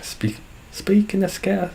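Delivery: high-pitched, botched Scouse accent; Scouse accent attempt. Shown as a demonstration. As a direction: have a failed go at Scouse. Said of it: "Can't do Scouse".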